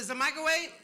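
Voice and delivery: high, loud hopeful question; hopeful guess. Retold or imitated. Pastor hopefully guessing what's in the box, high and loud. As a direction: ask like you still hope it's good.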